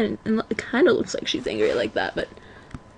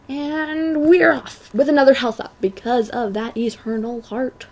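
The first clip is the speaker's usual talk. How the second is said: odd announcer flourish. Real, not acted. Gamer sending the run off after a health up, mock announcer flourish. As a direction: stretch the opening like a race starter. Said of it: "Why did I say it like that?".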